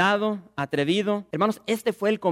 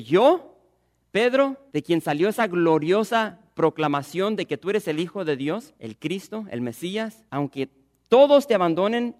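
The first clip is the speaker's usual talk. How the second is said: proud boast; 2 semitones higher, 5 dB louder than usual. Acted. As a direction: puff up and proclaim it. Peter's proud vow to Jesus.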